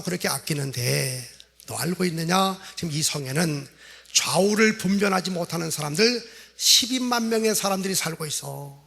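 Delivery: God/character; God's voice. Acted. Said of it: "그때 하나님이 이렇게 말씀합니다".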